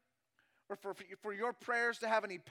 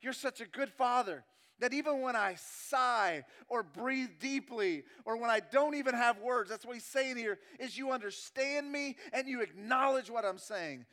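raised, emphatic preacher's voice; forceful preaching; 3 semitones higher, 6 dB louder than usual. Acted. Preacher voicing David's trust in God, forceful preaching. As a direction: preach it with rising conviction.

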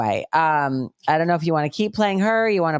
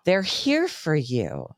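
slow, sugary mock reassurance; sarcastic; much slower than usual. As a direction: coo it like a false comforter.

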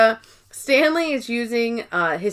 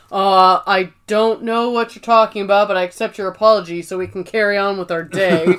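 mock deep voice; 3 semitones lower than usual. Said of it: "pretending to speak in a deep voice".

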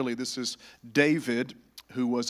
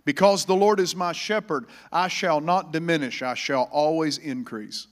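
preaching at full force. Acted. Pastor preaching the paraphrased verse to the church, emphatic. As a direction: hammer each line of the promise.

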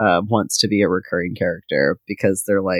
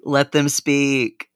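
slow solemn; 5 semitones higher, much slower than usual. Pretend. Ceremonial call for the bat.

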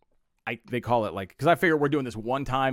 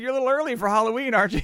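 teasing jab; 9 semitones higher, 4 dB louder, much faster than usual. Retold or imitated. Teasing audience member on stage.

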